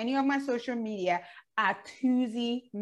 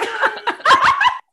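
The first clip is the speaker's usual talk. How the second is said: sudden high burst of laughter; cracking up loudly; loud delighted laugh; 13 dB louder than usual. Real, not acted. Guest answers no.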